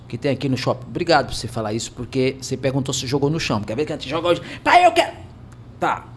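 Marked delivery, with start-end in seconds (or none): 4.6-5.1 put-on high, loud childish demand; imitating a begging kid. Father retelling his son begging for a toy, high kid voice. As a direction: play the little son wanting the toy now.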